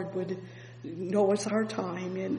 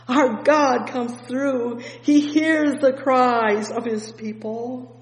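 loud, slow, higher proclaiming; fervent preaching; 4 semitones higher, 8 dB louder than usual. Acted. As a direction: proclaim it slowly to the church.

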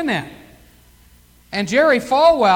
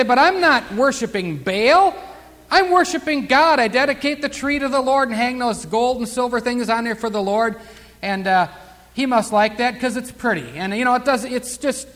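mock defensive listener. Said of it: "You might say".

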